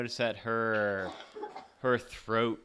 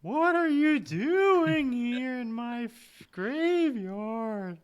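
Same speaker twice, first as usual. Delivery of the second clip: put-on high eerie ghost girl; haunting, wavering ghost voice; ghostly voice; 13 semitones higher, 6 dB louder, slower than usual. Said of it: "pretty good ghost voice".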